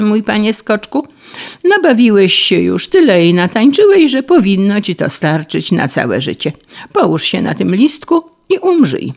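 a hint of a cruel mole's mockery; mocking mole. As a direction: tell the dancer to lie down and die, mockingly. Mole mocks the grasshopper.

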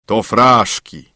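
slow, dismissive spirit; haughty. A narrator's reading. Boastful spirit answering the student's challenge, slow and haughty. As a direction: stretch it out with lofty disdain. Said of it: "Duch rzekł wyniośle".

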